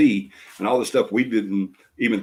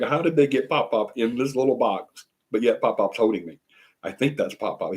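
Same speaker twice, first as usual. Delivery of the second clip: a hint of mock bewilderment, pitched up; baby freaking out; 3 semitones higher than usual. Grandparent voicing the baby confused by the screen, mock freaking out. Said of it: "he's freaking out. He's like".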